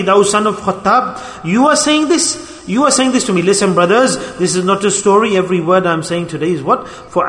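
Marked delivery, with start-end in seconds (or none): 0.0-3.4 slow stern address climbing sharply in pitch; retold reproach, high incredulous question; stern rebuke. The Prophet answers Umar's offer of comfort, retold stern rebuke. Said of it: "said sternly".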